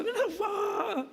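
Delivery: put-on high, slow wailing child's protest. Pastor voicing the boy refusing to go to school, high drawn-out wail. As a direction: cry it out like a kid refusing school. Screaming child voiced in story.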